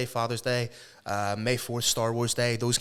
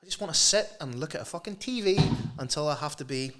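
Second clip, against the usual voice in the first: lazy refusal. Retold or imitated. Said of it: "Be like".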